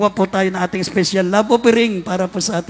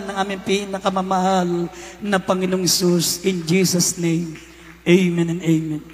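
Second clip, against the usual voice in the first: prayer. Acted. Leads a prayer.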